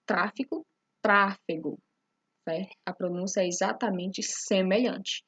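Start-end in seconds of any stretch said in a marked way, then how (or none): 0.1-0.6 tráfico with the i sound; tráfico, third-from-last stress, i in the middle; stressed tra-fi-co. Shown as a demonstration. 1.0-1.8 tráfego with the e sound; tráfego, clear e in the middle syllable; stressed tra-fe-go. Shown as a demonstration.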